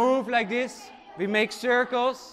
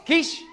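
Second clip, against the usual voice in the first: superhero sound; 6 semitones higher than usual. Acted. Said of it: "One more time, louder".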